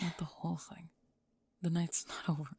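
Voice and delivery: whispered, gentle correction; soft reassurance. Acted. Raven gently reassuring Spring in a soft whisper. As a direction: ease her down softly. Consoling her upset friend.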